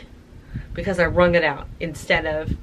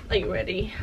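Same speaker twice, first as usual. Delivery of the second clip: quiet tease; 7 dB quieter, faster than usual. Real, not acted. Teasing the reveal after washing.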